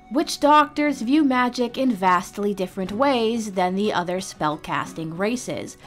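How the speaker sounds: usual speaking voice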